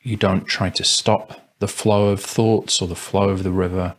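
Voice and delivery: spacious, calm guidance, long silences between phrases; guided meditation. Acted. Meditation teacher guiding listeners to observe thoughts, calm and spacious. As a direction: let each instruction settle before the next.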